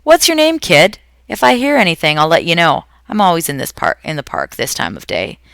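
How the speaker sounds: calling loudly, high and strained across the park; loud high call after her; yelling after. A narrator's reading. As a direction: shout it after the girl walking off. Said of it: "The old woman yelled after".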